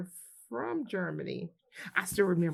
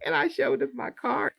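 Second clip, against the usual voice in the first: laughing; 7 semitones higher, 3 dB louder than usual. Real, not acted. Laughing at own story.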